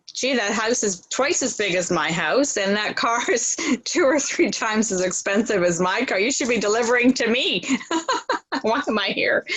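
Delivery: half-laughing mock complaint; light joking grumble with a laugh; jokingly. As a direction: tease it as a joke with a chuckle. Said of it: "Kind of jokingly".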